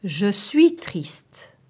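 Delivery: slow, whispered and sad. Shown as a demonstration. Teacher demonstrating sadness, slow whisper. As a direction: sigh it out softly in sorrow. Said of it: "teacher showing sad phrase".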